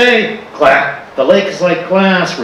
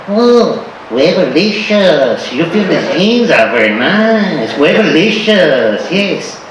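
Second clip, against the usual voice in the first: flirty ladies; slower than usual. Retold or imitated. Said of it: "They go".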